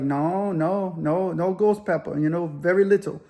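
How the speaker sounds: lightly imitated Mexican accent. Amigo warning about ghost peppers, light Mexican accent. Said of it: "in that Mexican accent".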